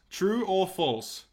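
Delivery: slow drawn-out announcer read; game show announcer. Acted. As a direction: announce like a quiz host. Host drawn-out quiz announcement.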